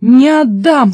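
firm defiant outburst; defiant refusal. Acted. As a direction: refuse with full force, falling at the end. Peter defies the rising water.

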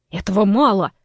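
нетерпеливо, громче, перебивая; оборвать собеседника, не дослушав. Acted. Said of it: "нетерпеливо перебил его незнакомец". (нетерпеливый громкий выкрик)

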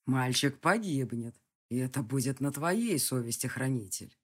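a distant villain in no hurry; menacing villain. Acted. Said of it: "продолжил голос". (низкий угрожающий голос злодея)

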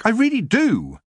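high squeal on "do"; squealed last word. A narrator's reading. Young witch insists she enjoys her work, squealing. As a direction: let "do" shoot up into a squeak. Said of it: "came out as a squeal".

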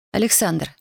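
ordinary delivery

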